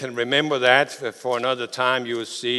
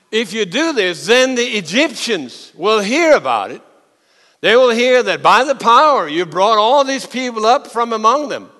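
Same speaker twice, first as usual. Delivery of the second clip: pleading argument; 8 semitones higher, 7 dB louder than usual. Acted. Moses arguing with God.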